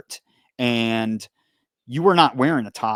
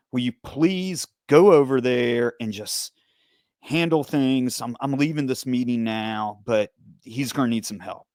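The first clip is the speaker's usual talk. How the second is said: exasperated lieutenant, retold with mild emphasis; disappointed dad. Lieutenant calling about Eric's fight, like a disappointed dad. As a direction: imitate a let-down dad's huffy request. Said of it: "he sounded like a disappointed dad".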